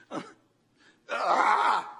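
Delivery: sudden hammed-up wail; imitated scream. Preacher imitating the family wailing over the phone, loud scream. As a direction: burst out in a mock panicked cry.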